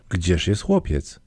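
ordinary delivery

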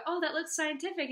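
high, loud impressed gush; imitated admiration. Ladies admiring her mom's necklace, imitated admiration.

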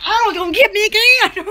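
half-laughing "it's gonna get me"; laughing mock dread. Telling viewers about the pool ladder, laughing mock dread. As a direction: giggle through a fake fear. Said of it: "I was like".

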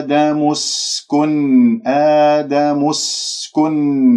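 slow, drawn-out recitation with held vowels; measured Quran recitation. Shown as a demonstration. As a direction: recite it slowly as a teacher models tajweed. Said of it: "لا تسحب ضمة الميم من كلمة آدم إلى السين". (ترتيل تعليمي متأنٍّ)

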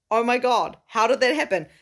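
loud, high burst of excitement; thrilled and loud; excited exclaim. Real, not acted. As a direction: gush about it. Excited recalling working with Vanessa.

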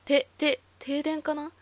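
stammering, forced calm; voice cracking. Acted. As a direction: try to sound unbothered and fail. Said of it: "声が上ずっていた".

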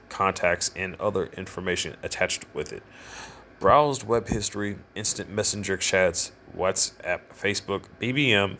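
flat robotic reading voice. Real, not acted. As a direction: read it like a robot. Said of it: "I feel like I'm talking like a robot".

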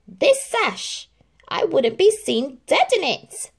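high, loud, disgusted whine; moaning Anastasia. A narrator's reading. Anastasia moans about her sash, high loud. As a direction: moan with disdain. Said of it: "moaned Anastasia".

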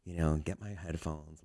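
low, softened sneaky recounting; hushed, careful play-by-play; real quiet. Retold or imitated. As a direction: keep it down, as if creeping past someone. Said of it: "like, real quiet".

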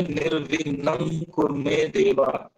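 निर्विघ्नं ending in a velar "ng"; anusvara as ng. Shown as a demonstration. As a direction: slowly show निर्विघ्नं with the nasal "ng" before कुरु. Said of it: "ऐसे करके बोलेंगे".

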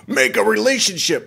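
high put-on voice mocking a bot; mock scam voice. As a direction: sneer it like a fake profile. Mocking scam profile again.

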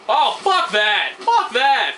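loud, furious curse at the game; angry outburst. Real, not acted. Gamer cursing at an enemy, furious. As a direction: snap it out in real frustration.

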